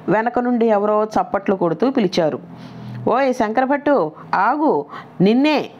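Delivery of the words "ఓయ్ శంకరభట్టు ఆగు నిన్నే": mild mock call, only a little raised; a hint of shouting to stop a passerby; retold shout. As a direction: call after him from behind, lightly. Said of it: "అని గట్టిగా అరుస్తూ చెప్పారు".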